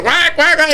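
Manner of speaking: quick duck quacks; mimicked squawking; imitated crazed duck. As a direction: quack like a duck going crazy. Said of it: "this duck's going crazy".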